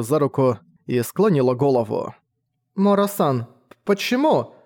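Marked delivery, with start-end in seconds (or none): 2.7-4.5 put-on higher, startled young girl; a girl caught off guard; bewildered girl. A narrator's reading. Girl startled as Mora bows, bewildered high voice.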